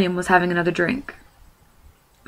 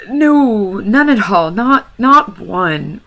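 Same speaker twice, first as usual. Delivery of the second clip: flustered backtrack; 3 semitones higher, 7 dB louder, much slower than usual. Acted. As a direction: hastily take it back, tripping over words. Bilbo takes it back.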